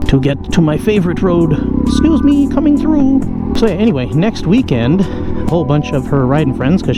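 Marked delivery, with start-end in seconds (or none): 1.9-3.2 called out. Real, not acted. Passing others on the bike.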